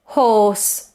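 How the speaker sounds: HORSE with a long, very closed o; closed rounded vowel. Shown as a demonstration. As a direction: say HORSE with lips tightly rounded. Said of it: "it's very closed".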